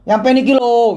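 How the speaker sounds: thick Javanese medok on "Sampai niki lo"; mock Javanese medok accent. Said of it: "medok gitu loh".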